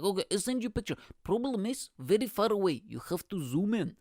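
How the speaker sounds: high-pitched comic dad voice; imitated dad. Dad warning that the picture needs zooming, high imitated voice.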